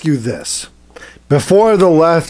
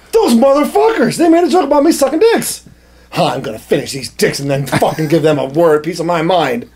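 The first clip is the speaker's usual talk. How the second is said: mock Zelensky rant; 2 semitones higher than usual. Zelensky voiced angry, mock.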